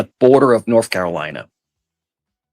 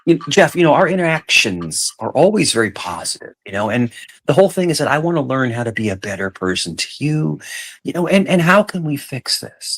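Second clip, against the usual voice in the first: calming tone scale; 3 semitones higher than usual. Shown as a demonstration. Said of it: "Let me try it".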